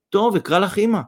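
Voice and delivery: high, tremulous consent; trembling voice. A narrator's reading. Young woman agrees to say mother, trembling. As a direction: give in with trembling emotion. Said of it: "בקול נרעד היא אמרה".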